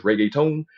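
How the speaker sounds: reggaeton as "ray-gay-tone", English r; learner's English pronunciation. Retold or imitated. Young learner getting it wrong, English-style reggaeton. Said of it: "when I was young, it was hard".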